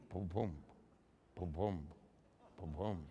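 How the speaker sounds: low mock heartbeat boom boom; heartbeat drum sound. Preacher mimics the womb's drumbeat, low booming.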